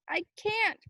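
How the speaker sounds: high, loud despairing cry; shouted back. Acted. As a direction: shout it over the current. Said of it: "Corey shouted back".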